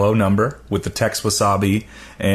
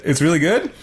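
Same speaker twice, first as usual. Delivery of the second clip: imitating a guy; 7 semitones higher than usual. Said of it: "a guy said".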